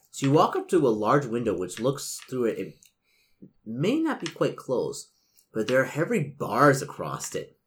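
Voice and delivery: measured gamebook read-aloud; game master narration. A narrator's reading. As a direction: set the scene for the players. Game master reads scene.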